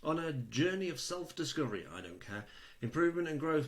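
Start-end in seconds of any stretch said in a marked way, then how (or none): 0.0-1.9 reading like a recruiter. Retold or imitated. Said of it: "I'm gonna read it like a recruiter does". 2.8-3.7 reading like a recruiter. Retold or imitated. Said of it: "I'm gonna read it like a recruiter does".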